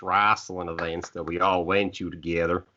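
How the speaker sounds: light put-on southern accent; playful southern accent on "wrestling". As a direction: say it with a hint of southern twang. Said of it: "get my southern accent up to par".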